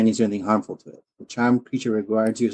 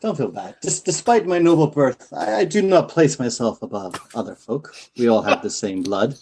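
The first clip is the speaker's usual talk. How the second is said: charming nobleman. Acted. Player voices noble character.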